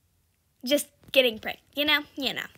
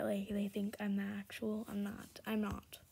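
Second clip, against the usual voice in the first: hushed aside; soft whispered aside; 4 semitones lower, 15 dB quieter than usual. Real, not acted. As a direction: whisper so they can't hear. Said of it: "unvoiced whisper".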